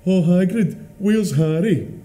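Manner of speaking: loud, high mocking street call; imitated heckling shout. Man imitating strangers heckling him in the street, mock shout. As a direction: shout it like a passer-by jeering. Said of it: "people would shout".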